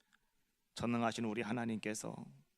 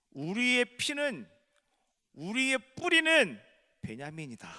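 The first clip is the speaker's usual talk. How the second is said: proclaiming; 9 semitones higher, 7 dB louder than usual. Acted. Preacher proclaims Benjamin identity.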